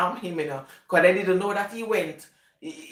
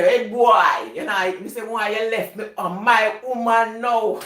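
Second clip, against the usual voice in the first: man's voice; 2 semitones higher, 4 dB louder than usual. Retold or imitated. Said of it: "I can talk like man".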